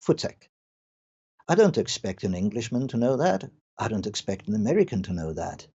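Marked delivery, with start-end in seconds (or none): 0.1-0.5 "Futsek" spat out with a sharp T S; "Futsek" said short and crisp, as if chasing off a dog; Afrikaans dog command. Shown as a demonstration. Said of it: "just say".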